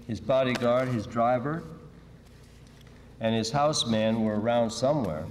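even, understated novel reading; story narration. Acted. Author reading a bomb squad story to listeners, story narration. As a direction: read the crime story aloud in a dry, steady storyteller's flow. Reads own novel aloud.

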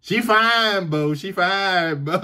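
imitating Southern kids, high and drawn out on "fine"; playful Southern call to a buddy; down-South talk. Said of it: "we'd be like".

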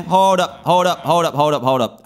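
sudden surprise. Real, not acted.

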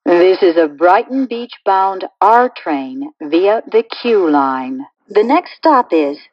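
recorded subway announcement stitched from clips; choppy prerecorded train announcement with pasted-in station names; spliced together words. Acted.

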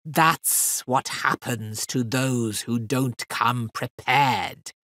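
lightly menacing fiend. Acted. Fiend warning the girl, slow and low. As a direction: let the threat sink in. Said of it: "said Razvani".

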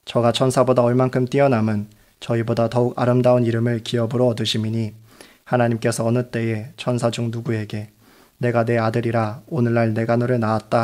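ordinary delivery

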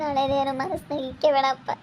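soft, tearful begging; tearful plea. Acted. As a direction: plead quietly through tears. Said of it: "ಸುಪ್ಪು, ಅಳ್ಬೇಡ".

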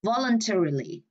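"voluntarily" stressed on VOL; stress on first syllable. Shown as a demonstration. Teacher marking word stress, "voluntarily" stressed on VOL. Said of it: "voluntarily âm một luôn".

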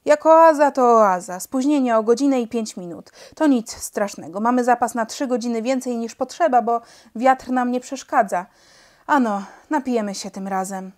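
lightly voiced airman, glad and loud; cheerful pilot. A narrator's reading. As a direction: boom it out with relief.

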